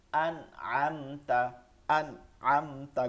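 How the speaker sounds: "আন আমতা" with clear n and m, no nasal hold; no ghunnah. Shown as a demonstration. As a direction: release the nasals of "আন আমতা" at once. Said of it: "গুন্না করা যাবে না". ("আন আমতা" গুন্না ছাড়া)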